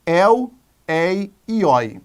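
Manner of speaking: "el, ei e oi" slowly, each open diphthong set apart; ditongos abertos. Shown as a demonstration. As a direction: sound out "el, ei e oi" one by one, vowels open. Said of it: "ditongos abertos". ("el, ei e oi" devagar, com vogais bem abertas)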